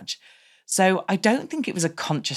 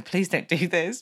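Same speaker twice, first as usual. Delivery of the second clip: inward pleading; 3 semitones higher than usual. Retold or imitated. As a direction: plead silently, pitched up, as if retelling your dread. Retelling her panicked inner plea.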